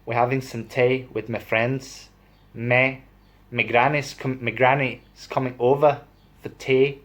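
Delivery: homely Yorkshire talk, "tea" as "tay"; attempted Yorkshire accent. Shown as a demonstration. Vlogger inviting granny for tea in imitated Yorkshire accent. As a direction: have a go at broad Yorkshire. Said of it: "I'm talking Yorkshire".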